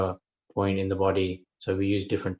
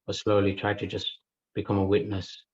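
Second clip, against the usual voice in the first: unhurried meditation guidance with long pauses; guided meditation. Acted. Teacher settling a group into breath awareness, guided meditation. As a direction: guide listeners into breath awareness, leaving space between phrases.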